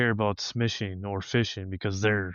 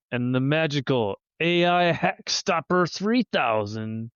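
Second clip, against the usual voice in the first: snake oil seller; 4 semitones higher than usual. Acted. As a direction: hawk it like a fairground huckster. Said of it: "It sounds like I should buy it".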